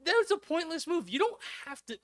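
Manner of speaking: high, loud, fed-up outburst; exasperated outburst. Real, not acted. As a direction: throw up your hands at it. Exasperated rant, voice jumps high.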